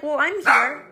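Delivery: sheepish reply. Retold or imitated. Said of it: "I'm like".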